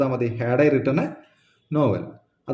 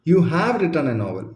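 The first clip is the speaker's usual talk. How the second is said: slow model sentence; 3 semitones higher, much slower than usual. Shown as a demonstration. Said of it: "ഇനി".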